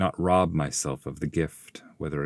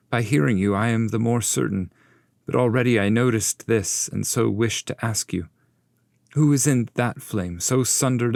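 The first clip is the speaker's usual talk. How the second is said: eager, higher questioning voice; Dante the pilgrim; 5 semitones higher than usual. Acted. Pupil eagerly asking his master about the flame, raised voice. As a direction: ask with keen curiosity.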